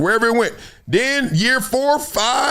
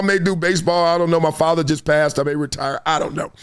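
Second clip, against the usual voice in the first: undecided athlete; 5 semitones lower, faster than usual. Retold or imitated. Imagined undecided Michael Jordan.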